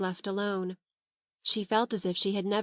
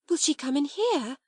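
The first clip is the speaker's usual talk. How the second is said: panicked whisper; 6 semitones higher than usual. A narrator's reading. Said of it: "whispered back, panic-stricken".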